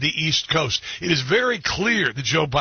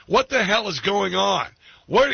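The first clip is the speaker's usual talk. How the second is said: raised, exasperated mock GPS squawk; a touch higher, playing the annoyed GPS lady; mock mad GPS voice; 5 semitones higher than usual. GPS voice scolding the driver, mock angry. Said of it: "She was sounding mad".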